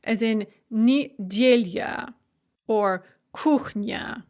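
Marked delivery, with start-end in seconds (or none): 0.7-2.1 "nedelya" slowly, ending in a weak yuh; slow Russian "nedelya", reduced last vowel; final ya as "yuh". Shown as a demonstration. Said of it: "pronounced as a kind of a y sound". 3.3-4.2 "kuchnya" slowly, ending in a weak yuh; slow Russian "kuchnya", reduced last vowel; final ya as "yuh". Shown as a demonstration. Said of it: "pronounced as a kind of a y sound".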